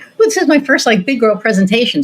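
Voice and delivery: high, excited squeal of a first big job; giddy excitement. Retold or imitated. Excited about her first presentation, squealing with glee. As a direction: gush like it's your first big girl presentation. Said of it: "I was so excited".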